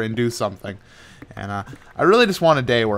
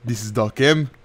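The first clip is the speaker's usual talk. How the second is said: Doc M impression. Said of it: "how you can do Doc M".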